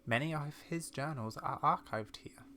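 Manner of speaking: lightly voiced old lady recounting family lore; measured, soft storytelling as an elderly explorer; old lady character.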